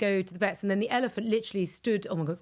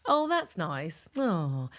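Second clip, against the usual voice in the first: touched sigh; 3 semitones lower, much slower than usual. Shown as a demonstration. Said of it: "make you go".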